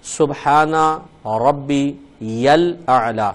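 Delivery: recited very slowly, word by word; slow recitation. Shown as a demonstration. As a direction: draw out each word of the tasbih. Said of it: "تین بار پھر آپ تسبیح پڑھیں". (آہستہ آہستہ تسبیح پڑھنا)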